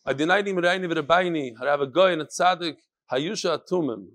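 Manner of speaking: put-on honorifics lightly read in a Hasidic accent. Reader follows the email's instruction on honorifics, Hasidic accent. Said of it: "make sure you read this with Hasidic accent".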